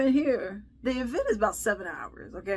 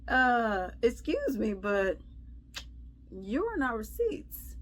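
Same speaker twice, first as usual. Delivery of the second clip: polite but pointed; 3 semitones higher, slower than usual. Retold or imitated. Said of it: "So I go and I look and I'm like".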